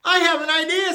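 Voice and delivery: high, eager announcement; excited idea. A narrator's reading. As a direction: burst out with the idea. Clayton has a sudden idea.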